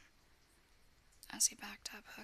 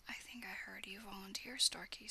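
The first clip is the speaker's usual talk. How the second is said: purring. Acted. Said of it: "purring again".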